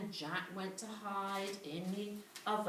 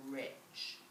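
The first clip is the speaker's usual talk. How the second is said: hushed reveal; 8 semitones lower, 9 dB quieter than usual. A narrator's reading.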